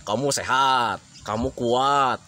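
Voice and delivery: low-pitched, calm encouragement; gentle promise of recovery; reassuring explanation. Acted. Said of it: "ditambah dengan keterangan-keterangan".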